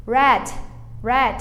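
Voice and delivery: "red" with a retroflex countryside R, not an H. Shown as a demonstration. Teacher models the colour word, "red" with countryside R. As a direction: say "red" carefully with the R of interior São Paulo. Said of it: "falar aquele R de interior".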